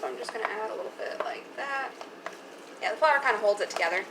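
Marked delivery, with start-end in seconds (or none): 0.0-1.9 whispered aside. Real, not acted. Whispered aside while cooking.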